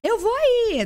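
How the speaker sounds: high-pitched mock yelling at the daughters; a hammed-up impatient father counting down; husband yelling from the bedroom at the girls; imitating dad yelling. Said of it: "ele ficava gritando".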